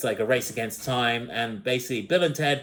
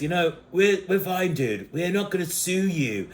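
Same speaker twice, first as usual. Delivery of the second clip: slightly raised stoner-dude voice; Cheech and Chong; 4 semitones higher than usual. Retold or imitated. Bill and Ted asking Death for help, stoner-dude impression. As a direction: lightly voice a laid-back dude. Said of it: "it sounds like Cheech and Chong".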